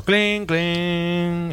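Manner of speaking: sensor clink. Retold or imitated. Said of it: "hace el sensor".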